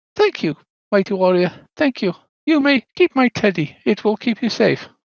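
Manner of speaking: high, otherworldly ghost voice. A game master voices the spirit as the player enters the crypt: Little Thorn's voice. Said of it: "Little Thorn says".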